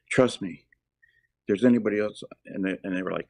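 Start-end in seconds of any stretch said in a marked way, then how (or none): 0.1-2.2 huffing and puffing, a bit louder; panting like you just left a burning house; out of breath. Retold or imitated. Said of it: "We don't need you to, uh, huff and puff".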